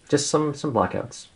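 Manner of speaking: shivering, slightly shaky voice. Real, not acted. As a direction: voice shaking from the cold. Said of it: "my voice sounds a bit shaky".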